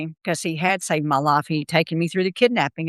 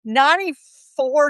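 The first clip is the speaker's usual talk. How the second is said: laughing; 10 semitones higher, much slower than usual. Real, not acted. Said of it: "I'm gonna sound like an old person".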